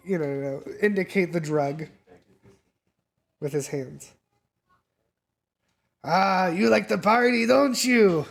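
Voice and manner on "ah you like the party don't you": higher and louder, knowing and teasing; sly dealer. Acted. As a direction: lean in like you've caught them out. Dealer voiced in GM scene.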